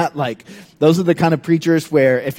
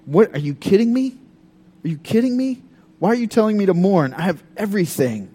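mock-indignant king, higher; a spoiled king scoffing; 4 semitones higher, faster than usual. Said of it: "Louis would be like".

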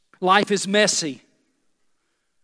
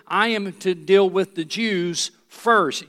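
slow emphatic paraphrase; slower than usual. Shown as a demonstration. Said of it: "In other words, translation".

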